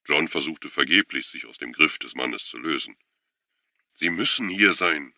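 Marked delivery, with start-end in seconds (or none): 3.9-5.1 high, loud desperate insistence; voice cracking. A narrator's reading. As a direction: insist with the voice tipping over. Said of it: "Seine Stimme überschlug sich".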